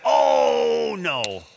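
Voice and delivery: lightly hammed-up oops voice; mock exclamation. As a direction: playfully act out forgetting an ingredient. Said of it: "you'll hear something like this".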